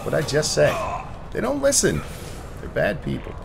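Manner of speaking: exasperated yelling at teammates; annoyed shout. Real, not acted. Teammates shooting at him mid-fight.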